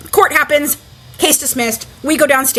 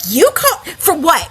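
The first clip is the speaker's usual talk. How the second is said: laughing disbelief, pitched up; incredulous laugh; 4 semitones higher than usual. Retold or imitated. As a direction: laugh it out, unable to believe it. Incredulous at police call.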